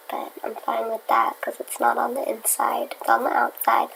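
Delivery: soft whispered aside. Real, not acted. Vlogger whispering about the bee on her window. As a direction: whisper it close to the mic.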